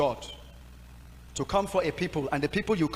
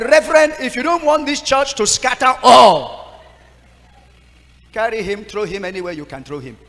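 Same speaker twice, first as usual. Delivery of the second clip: loud, high insistent demand, slowing down; pleading demand; 5 semitones higher, 10 dB louder than usual. Retold or imitated. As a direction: beg the reverend to send him away. Choir mistress demands removal.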